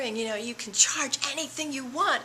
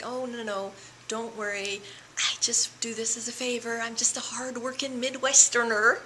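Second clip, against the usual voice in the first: put-on failed Midwestern accent. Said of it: "I'm trying to do the accent, but I can't".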